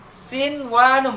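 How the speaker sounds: "sinwanun" slow, with a clear n before w; izhar reading. Shown as a demonstration. Teacher modelling the exception for pupils, "sinwanun" slow and unmerged. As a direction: draw out "sinwanun", keeping the n unmerged. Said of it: "Izhar, dibaca izhar".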